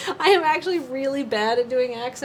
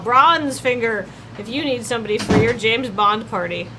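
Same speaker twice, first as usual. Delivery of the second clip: upbeat infomercial pitch, a bit louder; cheesy ad pitchman; 2 semitones higher, 4 dB louder than usual. Acted. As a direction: sell it like a cheap TV ad. Improvised ad pitch as Bronzefinger.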